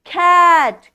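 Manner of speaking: ordinary talk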